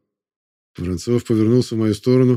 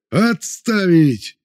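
commanding shout; 8 semitones higher, much slower than usual. A narrator's reading. Vorontsov halting the crowd, commanding shout. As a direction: bark the order to stop. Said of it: "закричал Воронцов".

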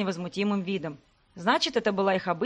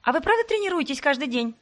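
rattled off; 7 semitones higher than usual. Acted. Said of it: "протараторила вторая".

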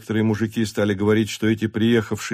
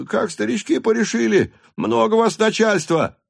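voices from the back; 12 semitones higher than usual. A narrator's reading. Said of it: "заговорили вдруг".

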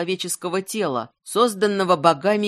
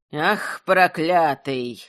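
hateful whisper; 3 semitones lower, much slower than usual. Acted. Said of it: "с ненавистью шептала Бажана".

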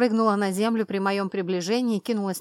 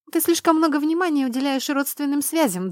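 dismissive; 7 semitones higher, 5 dB louder than usual. A narrator's reading. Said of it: "отмахнулась она".

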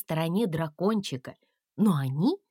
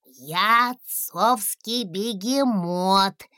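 thin little voice; much slower than usual. A narrator's reading. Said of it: "сказал дракончик тоненьким голосом".

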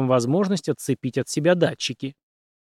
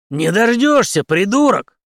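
loud, higher snap; snapping retort; 7 semitones higher, 6 dB louder, slower than usual. A narrator's reading. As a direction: bite the words off. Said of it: "огрызнулся Генри". (Генри огрызается, громко)

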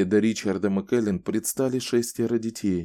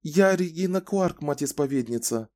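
timid; 7 semitones higher than usual. A narrator's reading. Frightened woman bows, answers.

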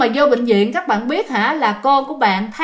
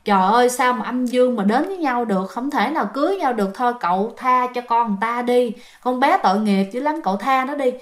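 gently pleading, slightly softened voice; imitated soothing healer; sweet coaxing. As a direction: coax an angry spirit to let go. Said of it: "ông mới dỗ ngọt".

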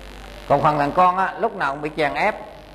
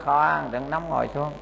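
softer, soothing words; calming her down; 5 dB quieter than usual. Retold or imitated. Monk calming the angry old woman, a soft soothing voice. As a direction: settle her gently. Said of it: "Tôi nói".

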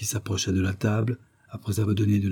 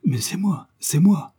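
put-on high, piping, skipping old man; small fluting voice; 8 semitones higher, 3 dB louder, slower than usual. A narrator's reading. Old man answering the police, small fluty voice. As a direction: pipe up lightly from behind the door. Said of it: "une petite voix tout sautante et flûtée".

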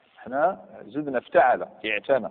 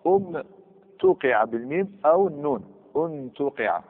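teacher emphasis; 3 semitones higher, slower than usual. Shown as a demonstration. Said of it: "هي الصواب".

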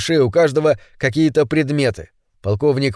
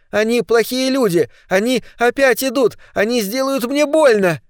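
put-on terrified child; 9 semitones higher than usual.

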